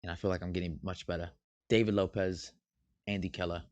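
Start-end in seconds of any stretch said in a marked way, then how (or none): 1.7-3.6 understated fake British accent; a hint of put-on British. Shown as a demonstration. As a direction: read the names in a lightly British accent. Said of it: "I say it in a British accent".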